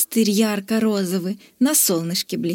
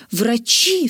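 delighted shout. Acted. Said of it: "вскричал в восторге Зок".

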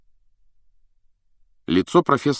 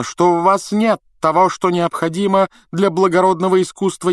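high-pitched, lofty scolding that builds louder; wrathful reprimand; 11 semitones higher, 4 dB louder than usual. A narrator's reading. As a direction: scold haughtily, drawing out the final words. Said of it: "В глазах профессора полыхнул гнев". (гневно, высоким голосом)

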